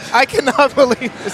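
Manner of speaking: laughing disbelief. Real, not acted.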